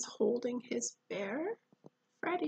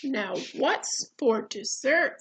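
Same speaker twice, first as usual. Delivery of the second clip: bear voice; 5 dB louder than usual. Acted. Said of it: "said the bear".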